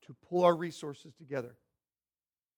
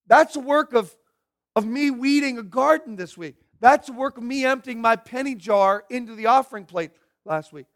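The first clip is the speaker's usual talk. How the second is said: put-on indignant kids' objection, a bit higher and louder; kids' protest; 4 semitones higher, 4 dB louder than usual. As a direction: insist it was your own hard work. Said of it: "And some kids say".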